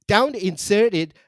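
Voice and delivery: hammed-up prank caller giving orders; mock caller demanding a broom on speaker; crude phone caller. S0 role-plays crude phone caller.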